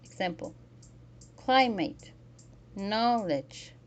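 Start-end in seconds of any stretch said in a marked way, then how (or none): 1.4-3.7 "climate", "knowledge", each with a strong first syllable; "climate", "knowledge", spaced out and front-stressed. Shown as a demonstration. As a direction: punch the start of "climate" and "knowledge". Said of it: "Stress the syllable of".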